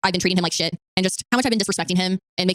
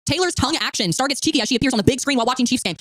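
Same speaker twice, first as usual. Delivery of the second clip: talking with food in mouth; mouth full; 2 semitones higher than usual. Real, not acted. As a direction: speak around a bite of food. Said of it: "talk with food in my mouth".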